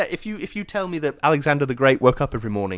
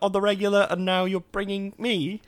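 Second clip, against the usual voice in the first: pitched up, baffled and half-laughing; incredulous date voice; 5 semitones higher than usual. Retold or imitated. Friend acting out a baffled date, mock incredulous. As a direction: react like a date who just heard something odd. Quoting date's reaction in disbelief.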